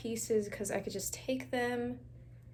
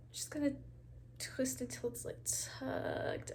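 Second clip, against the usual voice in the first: whispering; 8 dB quieter than usual. Real, not acted. Whispered after a laugh.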